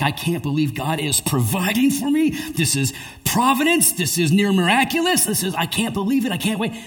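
high, amazed, rising lines; bursting with disbelief at his luck; pumped and thrilled. Retold or imitated. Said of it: "and he is pumped".

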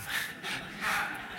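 soft nervous chuckle; a quiet uneasy laugh. Real, not acted. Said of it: "nervous laughter over here".

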